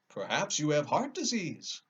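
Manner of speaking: a kind metal man suggesting; lightly voiced tin woodman.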